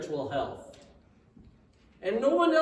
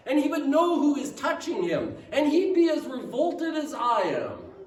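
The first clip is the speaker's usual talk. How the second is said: a self-righteous host working himself up; indignant Pharisee; 2 semitones higher than usual. Acted. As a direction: let Simon's disgust swell to an outcry. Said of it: "He thinks to himself".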